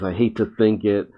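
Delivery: understated sad reread; sadly. Retold or imitated. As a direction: let it sink a little with regret. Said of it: "And Connor sadly says".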